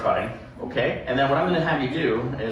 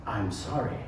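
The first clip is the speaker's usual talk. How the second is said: soft, sheepish little sorry; a magician mumbling his shame; meek apology; 4 semitones lower, 9 dB quieter than usual. Retold or imitated. Magician apologizing to the crowd after a trick fails, sheepish and soft. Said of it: "you look down and you knit your hands like this and you go".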